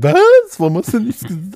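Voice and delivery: high-pitched mock disbelief; hammed-up indignant outcry; mock outrage. Imitating the newly single friend's reply, mock outrage.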